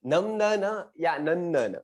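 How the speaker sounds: नंदन first with m then with n, slowly; slow contrast. Shown as a demonstration. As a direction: compare the two नंदन slowly. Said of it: "क्या आपने पढ़ा". (नंदन धीरे, दो उच्चारणों में)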